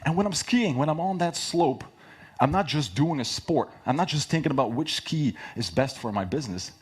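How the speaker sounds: animated, passionate pitch; excited pitch demo. Shown as a demonstration. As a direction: sell it with real passion. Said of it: "But I exaggerated for, for the talk".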